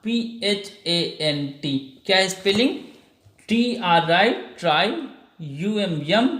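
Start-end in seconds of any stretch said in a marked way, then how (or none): 0.0-2.0 P H A N T spelt very slowly and quieter; slow the letters right down; slow spelling. Shown as a demonstration. Teacher slowly spelling the end of the word. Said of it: "फंट".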